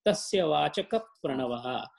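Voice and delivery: "Vachaka" stressed into a doubled p before "Pranavaha"; emphasized link. Shown as a demonstration. Teacher showing Mahaprana, "Vachaka" pressed into the following Pra. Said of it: "you emphasize on that word".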